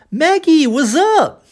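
high swooping "Maggie", "what's up" as "wazzup". Shown as a demonstration. Teacher modelling another form to Maggie, high with buzzing Z. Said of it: "Outra forma".

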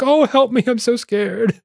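high-pitched mock plea for help; mock scared. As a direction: put on a squeaky, exaggerated fright. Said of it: "He's like".

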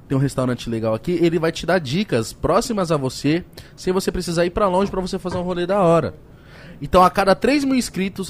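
upbeat sponsor pitch; ad read. Acted. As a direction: sell it like a host ad read. Reads sponsor ads. (leitura de publicidade animada)

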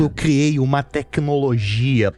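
lightly voiced supervillain scheming; Doutor Evil. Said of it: "o doutor Evil". (voz de vilão)

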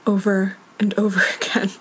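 a laugh breaking in before the last word; exasperated, half-laughing; laughing in exasperation. Real, not acted. Woman recounting her maddening compulsion, laughing in exasperation. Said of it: "And I'm laughing".

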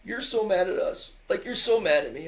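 mock wail, high and loud; imitating upset kids. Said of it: "they're bawling before I even talk to them".

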